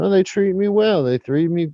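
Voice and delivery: ventriloquist's cow chatting back contentedly; a hint of a joke-teller's cow voice; talking cow. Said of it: "Cow says".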